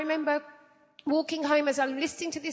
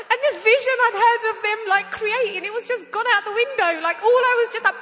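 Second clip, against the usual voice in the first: higher, louder, fast talk through laughter; laughing while talking; 7 semitones higher, 7 dB louder than usual. Real, not acted. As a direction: rush it out still laughing.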